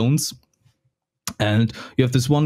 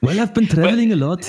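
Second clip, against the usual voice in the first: higher-pitched, laughing character voice; amused in-character excuse; 8 semitones higher, faster than usual. Acted. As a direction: laugh through a playful excuse. In-character joke about drifting accent.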